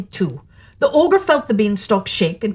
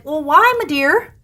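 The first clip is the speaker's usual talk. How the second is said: higher, flustered wife's voice; the wife stalling her husband, pitched up; ogre's wife; 7 semitones higher than usual. A narrator's reading. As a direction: play innocent, a little flustered.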